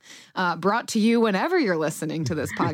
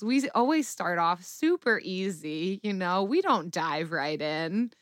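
sarcastic; 3 dB quieter than usual. Real, not acted. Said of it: "That's sarcasm".

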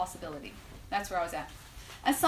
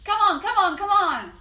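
much higher, louder excited gambler cheering; gambler urging; 10 semitones higher, 9 dB louder, slower than usual. Retold or imitated. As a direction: egg on the slot machine like a hooked gambler. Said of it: "And I hear his voice".

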